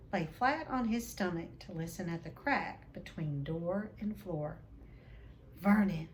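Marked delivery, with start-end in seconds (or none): 5.6-6.1 quivering voice. Acted. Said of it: "in a quivering voice".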